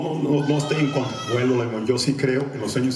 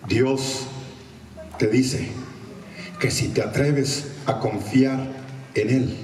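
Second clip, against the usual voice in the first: super prophet; much slower than usual. Retold or imitated. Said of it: "super profeta".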